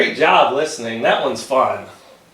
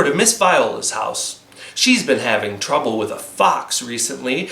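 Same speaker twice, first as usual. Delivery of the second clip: mother instructing daughter; lightly voiced mother; 3 semitones lower than usual. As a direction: warn the child gently. Mother's voice in story.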